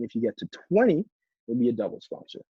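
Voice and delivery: TWENTY punched, then a short pause; emphasize "twenty", then ease off; stress on twenty. Shown as a demonstration. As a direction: hit the word "twenty". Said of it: "making sure you're emphasizing the right words".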